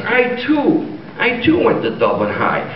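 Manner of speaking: Irish lilt, high at the start; jokey put-on Irish brogue; Irish accent. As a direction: claim it proudly as a stage Irishman. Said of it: "do I detect a bit of Irish?".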